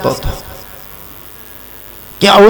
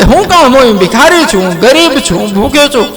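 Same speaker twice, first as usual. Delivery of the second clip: beggar's humble protest; 4 semitones higher than usual. Acted. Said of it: "કે".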